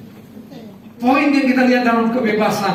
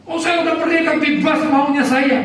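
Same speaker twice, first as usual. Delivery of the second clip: smug boast; 6 semitones higher than usual. Retold or imitated. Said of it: "seperti bangsa Indonesia merdeka salah".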